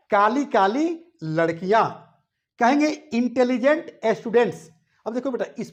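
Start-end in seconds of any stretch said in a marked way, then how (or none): 0.1-1.9 whispered translation. Shown as a demonstration. Teacher gives translation.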